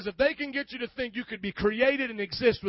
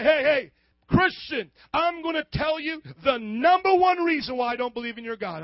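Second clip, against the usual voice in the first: mock atheist challenge; 4 semitones higher, 4 dB louder than usual.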